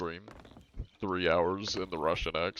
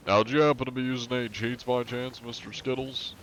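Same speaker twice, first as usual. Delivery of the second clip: mock polite questioning; 4 semitones higher than usual. Polite in-game cheater-hunter interrogation.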